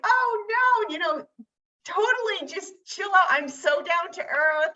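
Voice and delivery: high-pitched, airy retold "don't worry"; mock-breezy reassurance. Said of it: "get her to stay calm".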